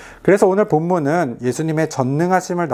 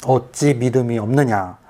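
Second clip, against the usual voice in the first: voice of Jesus; 3 semitones lower than usual. Pretend. Preacher voicing Jesus asking his followers, a lightly lowered rebuke. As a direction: speak as Jesus, gently questioning. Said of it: "예수님이 말씀하시는 거예요".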